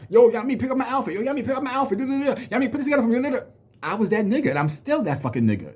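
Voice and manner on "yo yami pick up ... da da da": much higher, pleading calls to Yami; friends begging. Retold or imitated. Imitating friends asking him to pick their outfits, high whiny. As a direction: mimic needy friends wanting outfit help. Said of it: "These niggas was coming to me".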